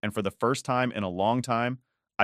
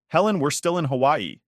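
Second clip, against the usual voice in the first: higher and louder, voice shaking; 6 semitones higher, 4 dB louder than usual. A narrator's reading. Mom calling Helen from Hawaii, voice shaking. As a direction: let the voice shake with worry. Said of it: "her voice practically shaking".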